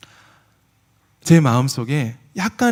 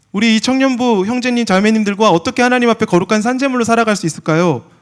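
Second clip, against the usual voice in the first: prayer plea; 7 semitones higher, 5 dB louder than usual. Acted. Impassioned prayer.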